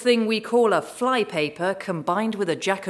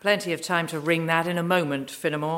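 lazy arrogant nobleman. Acted. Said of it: "He drawled".

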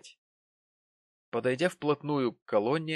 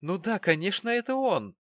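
high, loud gleeful cry; triumphant, thrilled to spot him; excited young lady, much higher and louder; excited recognition; 9 semitones higher, 4 dB louder than usual. A narrator's reading. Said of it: "воскликнул очень знакомый голос".

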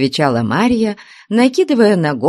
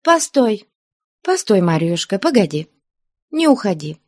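coaxing; 7 semitones higher than usual. Acted. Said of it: "ласково заговорила".

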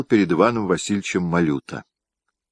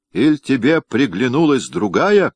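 much higher and louder, spiteful rage; gloating fury; 8 semitones higher, 4 dB louder than usual. A narrator's reading. Wife accusing her husband of another woman, furious. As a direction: hurl it with malicious fury. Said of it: "с невиданной доселе яростью и злорадством".

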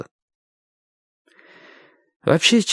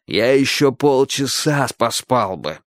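grumbling; slower than usual. A narrator's reading. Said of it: "раздражённо сказал мужчина".

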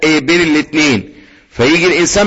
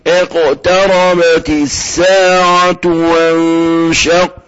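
slow tajweed chant; recite for repetition; much slower than usual. Shown as a demonstration. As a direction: recite slowly so the class can follow. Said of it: "ورايا كده برضو".

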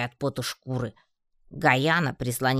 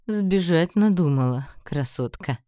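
loud, higher mocking challenge; taunting; 3 semitones higher, 4 dB louder than usual. A narrator's reading. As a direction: call out to mock the runaway. Captain taunts the caught runaway.

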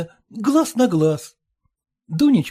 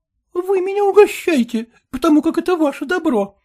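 mannered and coy, voiced higher; 8 semitones higher than usual. Dunka coyly refusing to play hostess for Gleb. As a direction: simper it back at him like a flirt. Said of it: "жеманно сказала Дунька".

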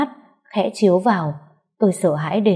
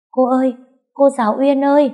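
put-on child calling out; 7 semitones higher, 3 dB louder than usual. Child calling through the hole.

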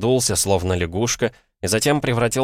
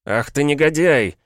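loud, high outraged cry; furious high-pitched outburst at his son; righteous fury; 8 semitones higher, 5 dB louder than usual. A narrator's reading. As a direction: shout the insult in indignant rage. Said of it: "вскричал в праведном гневе".

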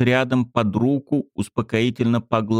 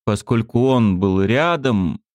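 ordinary delivery

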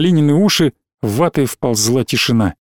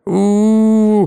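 put-on children hooting; 6 semitones higher, slower than usual. A narrator's reading. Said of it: "кричали дети".

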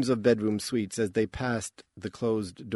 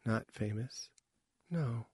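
suddenly tight; 9 dB quieter than usual. A narrator's reading. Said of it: "Her voice was suddenly tight".

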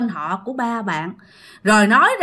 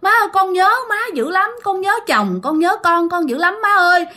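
crying plea; 6 semitones higher than usual. Acted. Possessed woman insisting to grandma, crying. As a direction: sob out the plea to mother-in-law. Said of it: "Khóc quá trời khóc luôn".

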